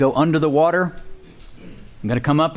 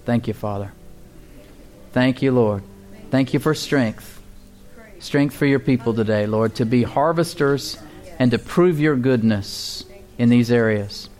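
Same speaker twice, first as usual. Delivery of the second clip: closing prayer. Acted. Pastor prays over the congregation for strength, earnest prayer. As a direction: pray it unhurried, lifting each plea to God.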